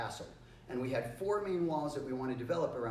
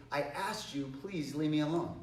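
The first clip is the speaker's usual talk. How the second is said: "asked" lightly stressed, polite tone kept; a little emphasis. Shown as a demonstration. Teacher models a repeated request, "asked" lightly stressed. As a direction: lean a little on "I asked you". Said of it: "a little emphasis on".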